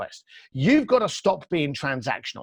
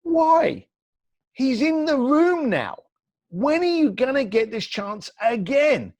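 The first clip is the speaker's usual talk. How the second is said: incredulous inner voice; 8 semitones higher, slower than usual. Retold or imitated. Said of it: "I thought to myself".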